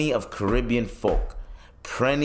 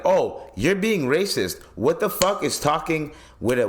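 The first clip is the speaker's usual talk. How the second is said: indignant; 6 semitones higher than usual. Retold or imitated. Indignant thought about the chef.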